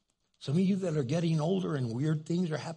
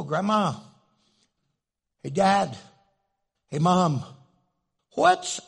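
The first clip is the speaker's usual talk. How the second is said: put-on kids calling out; 6 dB louder, slower than usual. Grandkids calling out.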